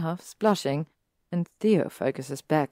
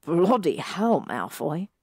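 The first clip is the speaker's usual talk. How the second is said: startled cry; 4 dB louder, slower than usual. Acted. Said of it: "Ron cries, laughing".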